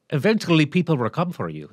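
lightly attempted Scottish accent; horrible Scottish accent. Host quoting the economist's warning back, in a bad Scottish accent. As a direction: imitate a Scotsman with a poor Scottish accent. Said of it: "That's my horrible Scottish accent".

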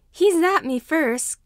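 put-on high, loud, slow protest of a five-year-old; indignant child; arguing child. A narrator's reading. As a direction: whine it as a defiant excuse. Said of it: "Katsuki argues".

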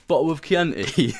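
put-on slow, questioning English accent on Chianti. Waiter mocking Aussie accent, in English accent. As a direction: echo it back like a posh English waiter. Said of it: "in an English accent".

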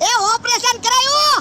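drawn-out words breaking into cackles; forced laughing. Acted. Patient reporting his operation while told to laugh, forced laughing. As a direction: say it slowly through put-on laughter. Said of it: "ઈ માણસ થોડો દાંત કાઢે".

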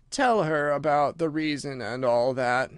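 drawn-out, languid request; slow, weary. Acted. Mock Turtle yawns and hands over to Gryphon, slow and weary. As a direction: drag it out wearily.

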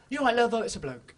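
one continual sentence. Retold or imitated. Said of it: "In one continual sentence".

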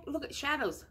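bright singsong voice for a little one. Real, not acted. Mom showing shadows to toddler.

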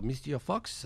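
put-on lightly French-accented concierge. Concierge approaches a waiting guest, French accent. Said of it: "this concierge comes up to me".

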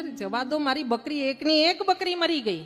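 mock tearful reply. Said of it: "એટલે કેમ રડો છો".

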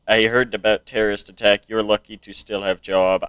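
put-on lightly done Russian-style accent; attempted Russian accent. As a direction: try a mild Russian-y accent. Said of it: "they still talk in a Russian-y way".

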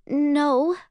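quick defensive denial. Acted. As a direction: snap out a defensive no. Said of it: "I say quickly".

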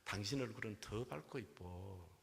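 put-on Seoul accent groom. Seoul groom compliments his bride's face, soft Seoul accent. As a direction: flatter her gently in Seoul speech. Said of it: "신랑이".

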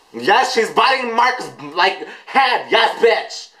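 high-pitched thrilled outburst; hyped, high running commentary; excited cheering. Real, not acted. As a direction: cry it out high like a fan. Excited reaction to the video.

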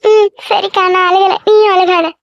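high, slightly tearful voice; mildly tearful. Acted. Younger sister denying her tears to elder sister, mildly tearful. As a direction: hold back tears while reassuring. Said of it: "சின்ன பிள்ளை மாதிரி ரெண்டு பேரும் அழுதுட்டு இருக்கீங்க".

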